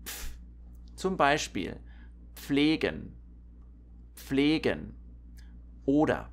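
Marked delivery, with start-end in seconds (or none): 0.0-0.3 "pf" as one soft voiceless puff; barely audible p released straight into f in "pf"; pf sound demo. Shown as a demonstration. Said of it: "It's really soft". 2.3-4.9 careful "pflegen", p barely heard; pf pronunciation demo. Shown as a demonstration. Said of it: "You hardly can hear the P here".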